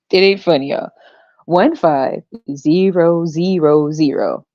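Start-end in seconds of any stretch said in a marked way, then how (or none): 1.5-4.5 very slow, every zero weighted; slow, spelled-out number. Shown as a demonstration. Comedian dictating the daycare cost to his viewers, slowly. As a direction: lay out each zero for them. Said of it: "look at the zeros at the end".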